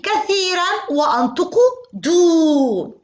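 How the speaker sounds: كثيرًا drawn out slowly and stressed, then دو with a long u. Shown as a demonstration. Teacher stressing how much to round the lips, slow. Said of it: "مع الضمة الكبيرة يجب أن أضم شفتي".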